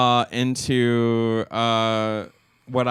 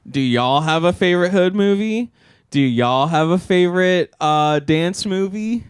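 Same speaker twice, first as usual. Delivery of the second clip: upbeat viewer question; 5 semitones higher, 5 dB louder than usual. Acted. Call to action for viewers.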